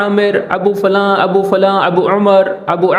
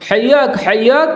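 Arabic accent; 3 semitones higher, slower than usual. Shown as a demonstration. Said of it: "اس طرح سے accent نکالنا ہے".

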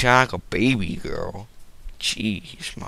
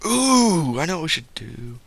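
1 surprised gasp; 5 semitones higher than usual. Real, not acted. Sudden idea while playing.

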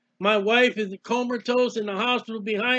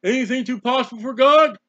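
lightly voiced devil, posing a question; devil's taunt; 4 dB louder than usual. Devil behind a struggling believer, lightly voiced taunt. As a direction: put on a hint of a taunting devil. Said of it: "the devil comes up behind you and says".

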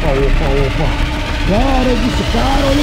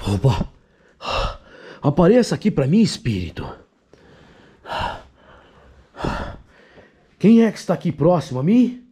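low, hushed, tense voice; 9 semitones lower, 7 dB quieter than usual. Real, not acted. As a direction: speak low so the spirit hears. Hushed ghost-hunt spirit calling. (voz baixa e tensa)

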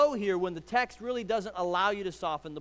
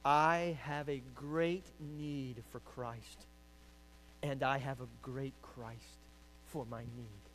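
quoting Spurgeon; 4 semitones lower, 7 dB quieter, slower than usual. Shown as a demonstration. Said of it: "Spurgeon says it".

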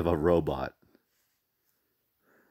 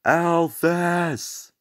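high shout of a name; calling out; 11 semitones higher, 3 dB louder than usual. Real, not acted. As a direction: call her name out loud.

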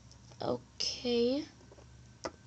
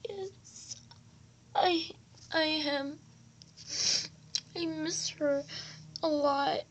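quietly crying; 5 dB quieter than usual. Acted. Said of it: "Are you crying?".

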